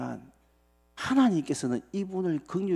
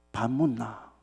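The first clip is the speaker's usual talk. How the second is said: Gyeongsang dialect; 3 semitones lower, slower than usual. Retold or imitated. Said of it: "경상도 말로".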